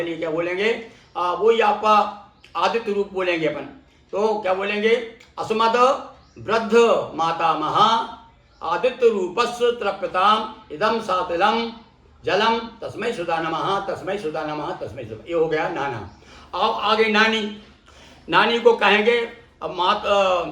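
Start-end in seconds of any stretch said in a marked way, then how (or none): 5.4-15.2 measured Sanskrit recitation, falling away at the end; teacher's demonstration of a mantra. Shown as a demonstration.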